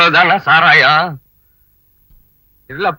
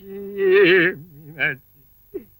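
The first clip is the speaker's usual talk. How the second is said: stretched-out mournful call of her name, rising; crying out Meenakshi slowly and sadly; long wailing call; 2 semitones higher, 4 dB quieter, much slower than usual. Acted. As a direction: draw the name out as if grieving. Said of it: "ஏன்னே அழுகுறீங்க?".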